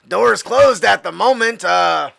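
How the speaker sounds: drawling, emphatic stoner excuse. Acted. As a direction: hedge like a stoner on guard duty. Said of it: "I gotta put on my stoner voice".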